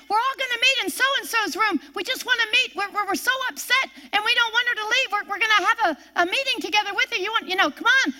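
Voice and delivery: upset coworkers. Retold or imitated.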